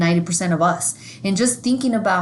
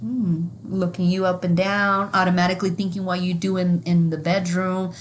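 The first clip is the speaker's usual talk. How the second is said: hushed, judging gossip; sneering bystander sizing someone up; mock judgmental whisper; 3 semitones lower, 4 dB quieter than usual. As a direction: whisper it like a nosy judge. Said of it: "you would be put in that position".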